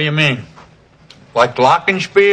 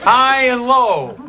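exaggerated cartoon intonation; 2 semitones higher, much slower than usual. Shown as a demonstration. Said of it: "make your voice go up and down more".

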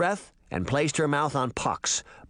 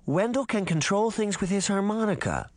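suspicious; 7 semitones higher than usual. A narrator's reading. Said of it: "her voice full of suspicion".

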